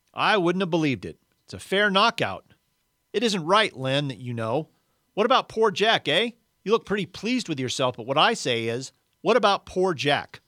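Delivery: a resentful ghost scolding the man he thinks a murderer; indignant Big Ghost. Acted.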